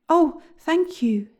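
high, slow, heartfelt thanks; grateful. A narrator's reading. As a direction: gush with a boy's gratitude. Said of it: "said William gratefully".

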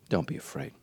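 soft, low whisper; hushed reassurance. Acted. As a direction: breathe the comfort. Repeated, whispered then plain.

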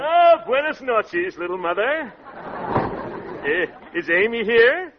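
son-in-law showing off with a flourish; grand greeting. Acted. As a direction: sweep in like a gallant. Show-off son-in-law makes grand entrance.

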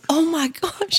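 high-pitched gasp of worry, acted out; alarmed retelling. Wife retells finding her husband on the floor, alarmed. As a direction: replay the shock in a high voice.

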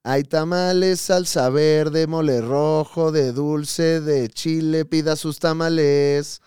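slow drawn-out street vendor chant; tamale vendor call. Retold or imitated. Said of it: "según yo era".

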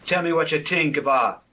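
put-on dripping sarcasm in a troll accent; sarcastic. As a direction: sneer the praise, troll accent. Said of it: "you can taste the sarcasm on that last note".

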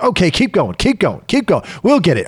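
imitating a coach pushing on regardless; mock hurried coach. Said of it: "and we're like".

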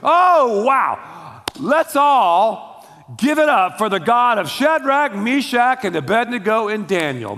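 big booming awestruck "oh" opening, then hyped-up crowd call; hammed-up wowed king rallying a crowd; crazy king's outburst. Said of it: "This guy was crazy. He goes".

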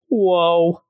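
a stunned, drawn-out sitcom whoa; Joey Lawrence whoa. Retold or imitated. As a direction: gape at it like a sitcom teen. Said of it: "like a Joey Lawrence would say".

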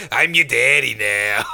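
mock daddy voice. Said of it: "I just agreed in the voice".

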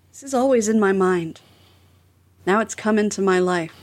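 mildly dramatic, measured recital of song words; dramatic lyric reading. Shown as a demonstration. Podcast host reads a song's lyrics on request, mildly dramatic. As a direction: read lyrics out with spaced, deliberate phrasing. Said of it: "dramatically read this".

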